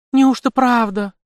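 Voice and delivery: high, slow gasp of amazed disbelief; gasping as if the news is too good to be true. A narrator's reading. Mother gasps at the prince's generous offer, high and slow. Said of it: "ахнула женщина".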